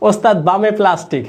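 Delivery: bus helper call. Shown as a demonstration. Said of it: "হ্যাঁ, সাবাস।".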